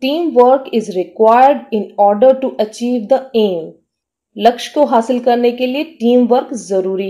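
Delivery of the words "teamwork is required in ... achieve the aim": slow, careful dictation pace; teacher reading an example sentence very slowly. Shown as a demonstration. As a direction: read it out slowly for learners to follow. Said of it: "इसका meaning है हासिल करना".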